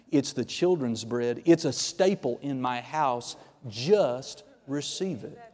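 low, soft voice of a patient Father; gentle assurance. Retold or imitated. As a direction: quietly assure them, slowing at the end. God speaking gently to believers.

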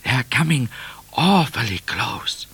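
Cat's anxious warning; worried warning. A narrator's reading. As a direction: warn your rider, drawing out the last words. Cat warns Midnight of pursuers.

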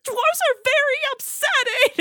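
very high, squeaky prince voice; high pitched voice. Retold or imitated. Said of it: "he says in such a high pitched voice".

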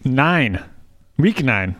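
hammed-up Minnesotan accent. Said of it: "what that accent was".

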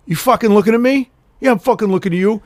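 a hint of comedian's tough guy; New York tough guy. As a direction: square up like a New Yorker. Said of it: "He goes".

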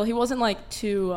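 ordinary talk

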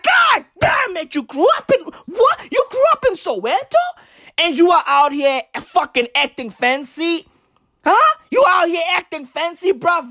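high, fast incredulous ranting; scandalized teasing; mock outrage. Comic mocking a Soweto kid acting fancy, high outrage. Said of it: "And I'd be like".

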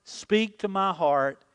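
leading the congregation line by line; slow, deliberate unison prayer; preacher leading a repeated prayer; call and response. Shown as a demonstration. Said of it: "Say that with me".

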